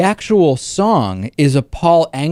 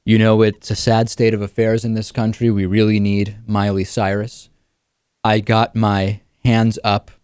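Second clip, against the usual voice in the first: mock dramatic reading; 3 semitones lower than usual. Host parodies Glenn Beck reciting a pop singer's lyrics, mock-solemn reading. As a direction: intone the pop lyrics like a grave sermon. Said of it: "He should do the same thing, but with Miley Cyrus lyrics".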